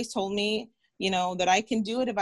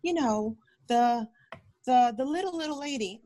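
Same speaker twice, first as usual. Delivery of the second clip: higher put-on voice of a visitor asking for her; imitating a visitor; 6 semitones higher than usual. Doctor retells a visitor asking for her aunt, higher put-on voice. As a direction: imitate the lady asking for the little lady, pitch up. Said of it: "this lady was like".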